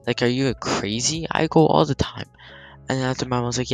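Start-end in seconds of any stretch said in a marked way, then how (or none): 0.0-2.3 retold indignation. Brother protesting to his sister over errands, indignant retelling. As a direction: argue it like an aggrieved sibling.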